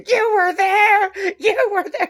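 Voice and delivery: high, slow, crying mock drunk wail; same tipsy wail, half sobbing; drunk mom again. Retelling the mom repeating her line, high teary drunk wail. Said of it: "Delivers the line the exact same way".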